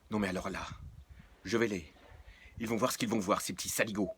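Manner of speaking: furious mutter building to a threat; angry outburst. Acted. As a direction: vow revenge through clenched anger.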